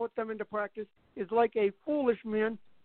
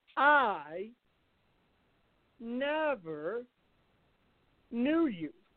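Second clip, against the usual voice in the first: very slow, deliberate, weighted word by word; 6 dB quieter than usual. Speaking to listeners, the phrase said slow and deliberate. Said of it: "I said it slowly on purpose".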